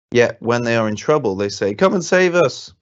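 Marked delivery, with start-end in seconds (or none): 1.7-2.7 desperate plea. Retold or imitated. People crying out in trouble.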